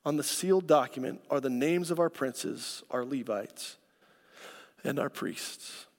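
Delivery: out of breath, fading quietly; breathless at the end of a long reading. Real, not acted. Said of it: "Gotta catch my breath".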